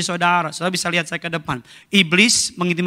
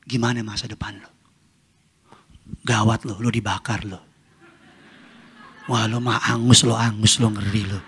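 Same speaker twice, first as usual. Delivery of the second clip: mock taunting; 6 semitones lower than usual. Taunting the devil back.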